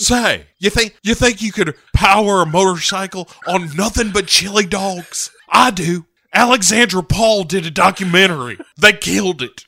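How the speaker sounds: hammed-up character voice. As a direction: play a dopey enthusiast. Mock character banter voice.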